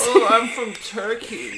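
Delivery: very slow mock Turkish accent. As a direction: drag it out in a hammy Turkish accent. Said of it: "I think Turkish accent is like".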